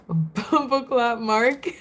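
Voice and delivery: giggling through the name; can barely say it for laughing; cracking up reading a viewer's name. Real, not acted. Reading a funny chat name aloud.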